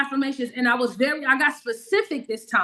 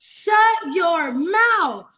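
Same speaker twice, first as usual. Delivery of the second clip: bigger disbelief; 4 semitones higher, much slower than usual. Retold or imitated. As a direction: repeat it higher, savouring the shock.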